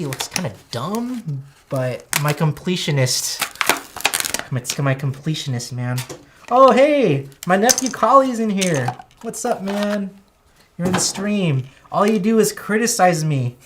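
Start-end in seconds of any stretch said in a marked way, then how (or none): 6.5-13.6 loud, high, surprised hello to the nephew; light up and call out to him; excited greeting. Real, not acted. Streamer greeting his nephew on the stream, loud and excited.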